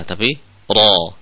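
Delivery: ro said heavy and rounded, slowly; thick ro. Shown as a demonstration. Quran teacher shows the heavy ro sound, slow and rounded. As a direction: give ro a full, dark vowel. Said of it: "huruf ro itu dibaca tebal".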